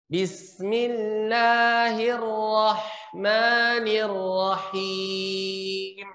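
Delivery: slow melodic recitation of Bismillahirrahmanirrahim; Quran recitation. Shown as a demonstration. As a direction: recite it slowly with tartil. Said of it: "saya contohkan dulu".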